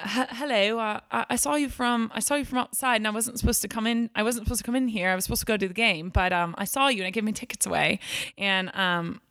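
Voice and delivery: lightly put-on British accent, half laughing at herself; bad British accent. Telling friends how the British man greeted her, in a weak British accent. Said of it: "I'm terrible at British accents".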